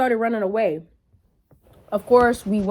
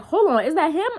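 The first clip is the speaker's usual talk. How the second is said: alarmed double-take; 6 semitones higher than usual. Retold or imitated. Cousin's alarmed question, retold again.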